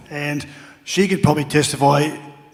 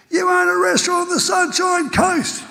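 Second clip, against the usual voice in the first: high-pitched heckler's holler; big booming voice; 4 dB louder than usual. Retold or imitated. Fan in the stands shouting to the player, booming yell. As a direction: call it out far across a stadium. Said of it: "this big booming voice".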